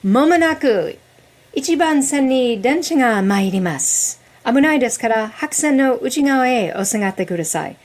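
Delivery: sing-song station platform announcement; train announcement. Retold or imitated. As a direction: read it like a Japanese train announcer. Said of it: "your Wisconsin accent was spot on".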